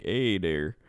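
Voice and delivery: lightly put-on Canadian accent; weird Canadian accent. Shown as a demonstration. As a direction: slip briefly into a Canadian lilt. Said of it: "like, weird accent".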